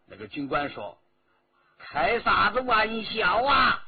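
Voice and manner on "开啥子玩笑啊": slow, loud scornful retort; officer scoffing in dialect. A narrator's reading. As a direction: brush the warning aside.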